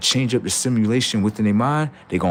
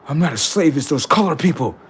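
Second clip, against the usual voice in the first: mock human protest; 5 semitones higher than usual.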